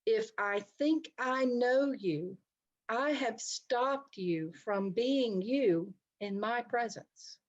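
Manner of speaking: slow, weighty, leaning on "think"; slow deliberate quote. Shown as a demonstration. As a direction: let each word of the quote land slowly. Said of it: "here's one of my favorite quotes".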